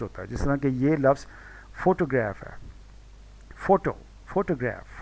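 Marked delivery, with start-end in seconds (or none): 1.8-2.4 फोटोग्राफ with the weight on opening फो; फोटोग्राफ stressed at the front, falling away after; stress on first syllable. Shown as a demonstration. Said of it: "फोटो पे stress है". 3.6-5.0 फोटो, फोटोग्राफ, each leaning on the opening फो; फोटो alone, then फोटोग्राफ, both front-stressed; stress on first syllable. Shown as a demonstration. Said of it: "फोटो पे stress है".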